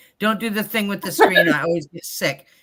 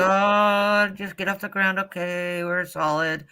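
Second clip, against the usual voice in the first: retold panic. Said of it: "I'm totally quiet and I'm going".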